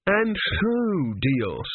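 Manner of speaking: high-pitched, ceremonious character voice; priest's appeal. A narrator's reading. Kumi turns to Dios before the priests, solemn appeal. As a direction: pitch it high, as if addressing a superior.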